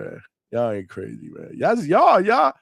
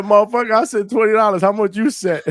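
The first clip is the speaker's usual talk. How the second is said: imitating the caller; 4 semitones higher, 3 dB louder than usual. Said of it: "he said".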